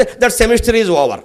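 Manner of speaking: very slow, dragged-out mocking student; mock student drawl, very slow; drawled student excuse. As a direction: stretch every word like a lazy student brushing off a question. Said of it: "ఒకవాడు ఉన్న ప్రశ్న వేస్తే".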